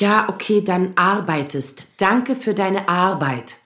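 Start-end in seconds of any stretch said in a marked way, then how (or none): 0.6-1.8 slow, grudging "arbeitest"; weary sarcastic concession. Acted. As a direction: give in with a sigh of sarcasm.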